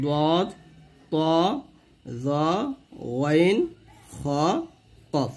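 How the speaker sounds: "দদ, ত, জ, ওয়াইন, খ, কফ" each thick and full; full-mouthed letter names "দদ, ত, জ, ওয়াইন, খ, কফ", pausing between; heavy letters. Shown as a demonstration. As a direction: list "দদ, ত, জ, ওয়াইন, খ, কফ" singly with emphatic Arabic articulation. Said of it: "এই সাতটা হরফ হলো মোটা হরফ".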